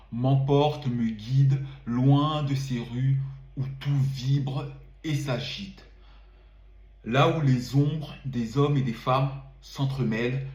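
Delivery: measured, lingering poetry reading; poem recital. Acted. Poet reading his winter poem to viewers, measured and lingering. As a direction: savour each line of the verse.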